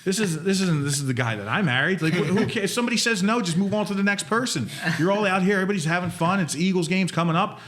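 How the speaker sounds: lightly voiced wife telling him to go; wife's tough love. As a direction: play the wife egging him on. Wife's pep talk, retold.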